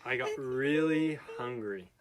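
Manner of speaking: dramatic storytelling. Acted.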